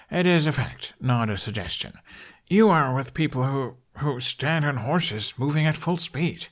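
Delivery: lightly voiced foreign riding master, matter-of-fact; a hint of an accented, earnest teacher. A narrator's reading. Instructor explaining to Hiccup, lightly accented and earnest.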